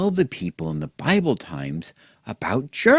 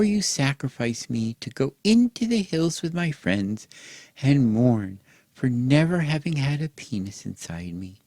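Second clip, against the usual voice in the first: put-on higher, sweet little girl voice; lightly voiced daughter; 4 semitones higher than usual. Daughter answers her father.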